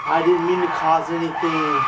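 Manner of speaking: shouted plea. Acted. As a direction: yell the denial at the ghost. Nephew shouts denial to ghost.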